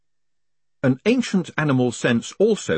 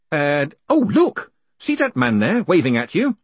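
high, louder excited stalling; urgent distraction; 6 semitones higher, 5 dB louder than usual. Acted. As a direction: eagerly draw the hangman's attention away. Condemned man points out approaching clerk.

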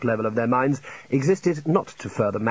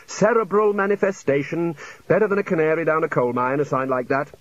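raised pitch settling as it goes; pronouncing senior wizard; 4 semitones higher than usual. Acted. Senior wizard explaining the warning sign, assured. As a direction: pronounce it like a confident old hand. Ridcully continues his diagnosis.

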